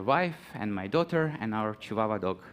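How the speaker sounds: ordinary talk, nothing marked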